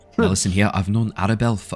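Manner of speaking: put-on Scottish-sounding accent. Performer vouching for arabelle in a scene, slipping into a scottish accent. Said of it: "I'm still Scottish!".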